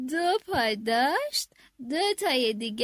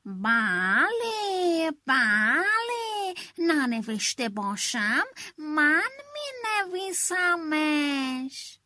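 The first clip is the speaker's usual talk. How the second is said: very slow, drawn-out yes from a lightly voiced sly fox; string them along lazily; slower than usual. Fox filing his claws, drawling a sly answer. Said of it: "پنجولش رو سوهان کشید و گفت".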